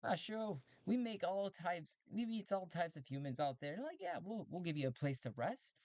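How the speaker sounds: high, chatty robot voice; a helpful robot host; friendly robot. Acted. Robot offering Talti a place to rest, high robot voice.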